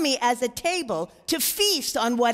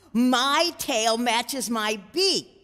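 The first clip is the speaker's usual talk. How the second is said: proudly; slower than usual. Acted. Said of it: "said Agatha Louise proudly".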